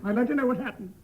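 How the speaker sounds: high, squeaky whining wife; rising hysterical falsetto; disguised voice. Acted. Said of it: "read this in a disguised voice".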